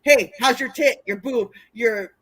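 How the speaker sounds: a lightly voiced creep hitting on her; sleazy guy imitation. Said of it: "that's how he would talk to me".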